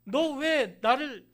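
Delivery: loud, accusing rebuke, stumbling with anger; angry accusation. Pretend. Pastor imagines Jesus condemning Saul, loud angry rebuke. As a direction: hurl the blame at a sinner. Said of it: "이렇게 얘기 안 하시고".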